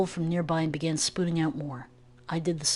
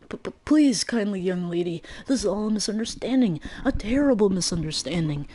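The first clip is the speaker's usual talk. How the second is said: panicked stammer; 3 semitones higher than usual. Acted. The griffin begs Kid in a panic. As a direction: plead for your life, tripping on the words. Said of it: "Panicking, the creature leapt".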